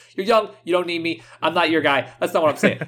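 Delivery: put-on thick, laid-on Brooklyn accent. Retelling what a friendly guy told them about saving money, heavy Brooklyn accent. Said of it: "saying this all with this heavy Brooklyn accent".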